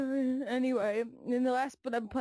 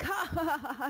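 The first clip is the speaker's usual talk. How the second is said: high, slowing fake laugh; retold mocking laugh; 4 semitones higher than usual. Computer jeering at its owner, mock laughter. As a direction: laugh in the user's face, put on.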